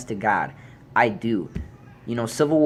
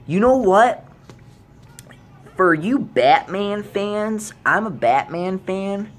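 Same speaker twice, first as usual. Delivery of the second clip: heated callout; 7 semitones higher, 3 dB louder than usual. Real, not acted. Turning on Batman fans.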